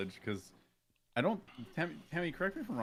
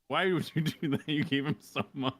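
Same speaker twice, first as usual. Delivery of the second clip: exasperated quote; 6 semitones higher, 7 dB louder than usual. Retold or imitated. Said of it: "Hemi was like".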